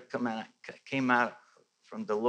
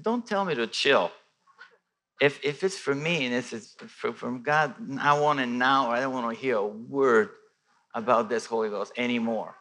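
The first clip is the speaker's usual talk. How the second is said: upset retort; 5 dB louder than usual. Retold or imitated. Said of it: "So I kind of was upset".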